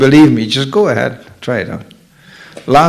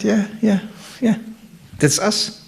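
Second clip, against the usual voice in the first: ladies agreeing; 6 semitones higher, 9 dB quieter than usual. Retold or imitated. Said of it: "they are knocking the head".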